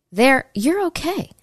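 a light, slowed imitation of Biden's halting speech; Biden impression. Vlogger mimicking Biden's halting speech for viewers. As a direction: lightly mimic an old man trailing off, slowly. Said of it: "'Cause remember, he talks like that".

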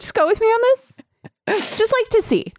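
squeaky-high playful wheedling; mock coaxing. Host pitches a silly idea to the character, high mock coaxing.

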